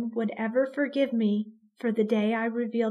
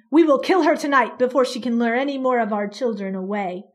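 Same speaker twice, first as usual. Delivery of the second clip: loud vow; 6 dB louder, faster than usual. Acted. Father vowing to kill creature.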